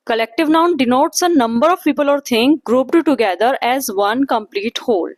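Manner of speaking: very slow, word-by-word dictation voice. Acted. Teacher dictating a definition to the class, very slow and even. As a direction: spell it out slowly so they can write.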